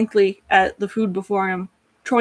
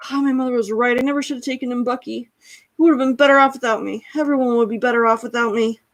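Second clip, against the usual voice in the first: freaking out; 4 semitones higher than usual. Acted. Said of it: "Alphonse just starts freaking out".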